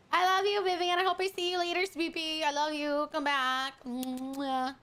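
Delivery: sing-song doting send-off; affectionate goodbye. Real, not acted. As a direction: fuss lovingly over a friend who is leaving. Sending off a departing viewer.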